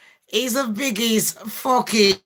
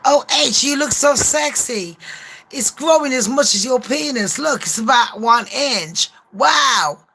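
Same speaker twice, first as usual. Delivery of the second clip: mock doting girlfriend; 3 semitones higher than usual. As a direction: fawn over him, hammed up. Voices Meghan flattering Harry again.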